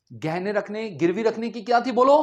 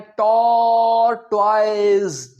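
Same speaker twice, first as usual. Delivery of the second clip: louder mock echo of "tor-toiz"; class echo; 6 dB louder, much slower than usual. Imitating pupils echoing tortoise loudly. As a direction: mimic children repeating the teacher. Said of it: "ऊंची बुलवाते हैं हमें".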